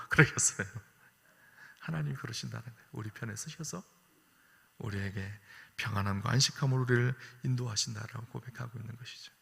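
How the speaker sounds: ordinary talk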